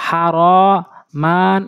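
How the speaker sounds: "হা র মান" dragged, each vowel held long; wrongly drawn out. Shown as a demonstration. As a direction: demonstrate the mistake, stretching out "হা র মান". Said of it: "টান দিয়ে পড়া যাবে না".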